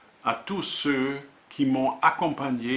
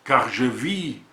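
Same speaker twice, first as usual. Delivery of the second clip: measured poetry reading with deliberate pauses; poem recitation. Acted. Poet presenting a volume of words and images, reciting. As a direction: recite in short, separated phrases, letting titles stand alone.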